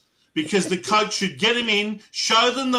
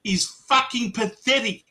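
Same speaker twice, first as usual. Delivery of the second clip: stern coach rant; 5 semitones higher than usual. Retold or imitated. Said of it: "and say".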